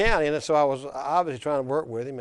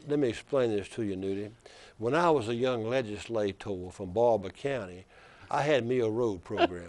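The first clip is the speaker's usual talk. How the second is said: put-on Black Belt accent. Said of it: "he says in that deep black belt accent".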